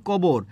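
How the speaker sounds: কবর with ক replacing খ; unaspirated k. Shown as a demonstration. Teacher showing lost aspiration, কবর with hard k. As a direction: say কবর with no breath after k. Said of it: "অল্প প্রাণ উচ্চারণ করছি".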